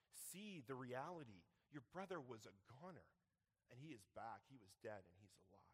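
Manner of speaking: put-on calm a resentful child with love; tender God. God speaking to older brother.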